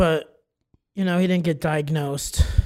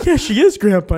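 insistent correction; 5 semitones higher, 7 dB louder than usual. Retold or imitated. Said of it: "And I go".

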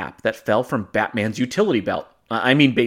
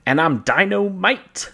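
mock dramatic announcement; 7 semitones higher, slower than usual. Joke quoting a song.

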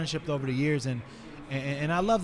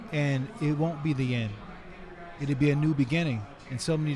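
sage advice; 2 semitones lower than usual. Retold or imitated. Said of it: "Randy gave me some sage advice".

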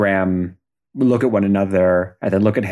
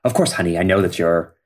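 mild dad impression; 3 semitones lower, faster than usual. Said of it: "the voice is something like".

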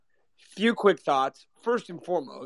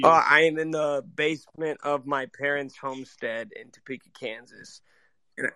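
coarse voice from a cold; rough, hoarse cold-sick voice. Real, not acted. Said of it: "my voice is coarse".

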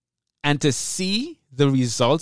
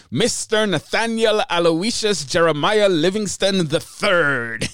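pompous emcee persona; 4 semitones higher than usual. Acted. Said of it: "it's all an act".

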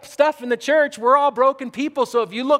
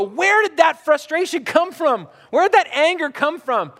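higher-pitched exasperated question; baffled self-questioning; 5 semitones higher than usual. Acted. Preacher voicing someone puzzled by their own frustration, baffled. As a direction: ask it in mock bewilderment.

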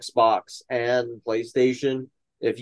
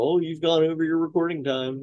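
higher-pitched mock app warning; mock nagging Zoom; 5 semitones higher than usual. Zoom warning the host he ran over, mock nagging. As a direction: put on a higher voice for the complaining app. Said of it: "Zoom doesn't go".

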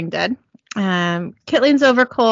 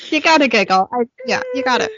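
after laughing hard; 5 semitones higher, faster than usual. Real, not acted. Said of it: "Let me collect myself".

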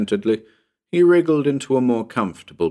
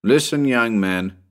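mildly truculent; a touch of scolding; 3 semitones higher than usual. Acted. Narrator reproves Tommy for his tale, mildly truculent. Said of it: "I said truculently".

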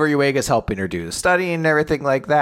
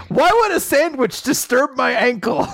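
much higher, incredulous question; puzzled retort to him; lightly voiced confused girl; mock baffled girl; 14 semitones higher than usual. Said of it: "her response".

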